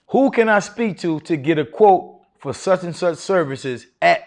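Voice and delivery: slow, steady, sure of yourself on the phone; confident, authoritative. Shown as a demonstration. Teacher demonstrating the opening phone line to students, confident and slow. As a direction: ask like you own the call, unhurried. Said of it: "with a little bit of, uh, I guess, confidence and authority".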